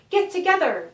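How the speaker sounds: loud, high shout to the group; urgent cry. Acted. Doctor Bradley shouting to the group as turkeys charge, loud. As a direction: yell it as the monsters charge. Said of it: "Doctor Bradley cried".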